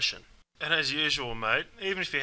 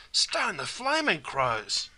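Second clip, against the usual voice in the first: slow, raised exclamation of surprise; surprised exclamation; 4 semitones higher, much slower than usual. Shown as a demonstration. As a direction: stretch it out in mock astonishment. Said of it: "This is also an expression of surprise".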